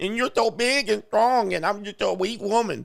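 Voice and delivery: high, helpless put-on baby voice. Commenting on a woman setting up her case to a man, mocking baby voice. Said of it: "She's doing her baby voice".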